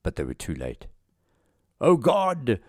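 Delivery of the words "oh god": high cry of dread; acted high-pitched exclamation; alarmed cry. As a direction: cry out as impact nears. Pilot sees the crash coming.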